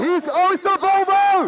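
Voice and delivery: spotting the car, lightly lifted; mildly excited. Real, not acted. First take, calmer.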